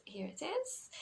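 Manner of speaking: soft whispered aside. Real, not acted. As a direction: breathe it out quietly. Showing sweater on camera.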